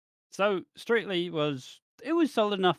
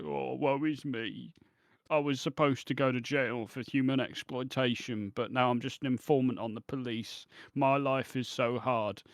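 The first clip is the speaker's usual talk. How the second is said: mocking whiny self-pity; 3 dB quieter than usual. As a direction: sulk it out like a self-pitying martyr. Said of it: "being all like".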